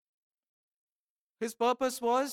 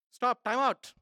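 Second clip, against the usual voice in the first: louder, clipped command; firm stop; 4 dB louder than usual. Acted. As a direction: call time out like a referee. God voiced, ending it.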